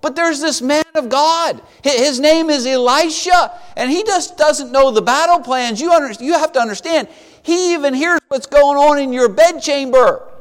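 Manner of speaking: mildly panicked underling explaining himself; urgent protest. Retold or imitated. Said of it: "one of them speaks up quickly".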